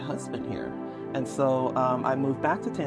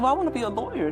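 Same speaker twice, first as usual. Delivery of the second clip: retold child; 10 semitones higher, faster than usual. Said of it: "And I said".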